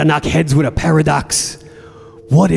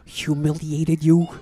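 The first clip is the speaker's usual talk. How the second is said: mock contrition; 6 dB quieter than usual. Mock contrite reply in quarrel.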